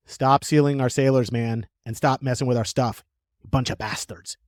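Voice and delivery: loosely attempted English accent. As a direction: put on a wobbly English accent. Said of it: "did I just do an English accent?".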